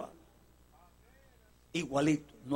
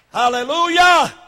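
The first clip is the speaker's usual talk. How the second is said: slow, loud praise; drawn-out hallelujah; 8 semitones higher, 13 dB louder, much slower than usual. Acted. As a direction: stretch it out for the crowd. Preacher exclaims praise.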